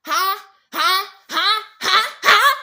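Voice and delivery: growing demand, ending in a loud shout; building huh. Real, not acted. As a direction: escalate from a mutter to a yell.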